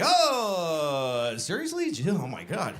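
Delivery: hammed-up put-upon complaint; exasperated groan. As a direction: groan at being stuck with it. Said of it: "I was like".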